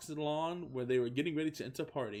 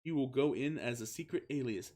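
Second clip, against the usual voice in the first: quick words; 2 semitones higher than usual. Acted. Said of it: "with quick words".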